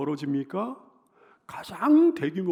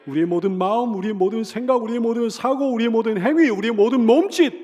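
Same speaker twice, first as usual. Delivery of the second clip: rapid-fire list building higher and louder; impassioned preaching; 6 semitones higher, 7 dB louder than usual. Real, not acted. Preacher listing all of life to the congregation, building to a shout. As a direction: build each phrase to a forceful peak.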